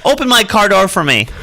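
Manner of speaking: high-pitched, hammed-up movie line; put-on Bronx tough talk; mock Bronx-movie demand. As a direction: toss it out as a playful Bronx order. Joining in the Bronx Tale bit.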